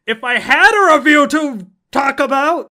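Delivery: loud, hammed-up complaint; mock lament. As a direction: wail it as fake despair. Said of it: "mock complaint shout".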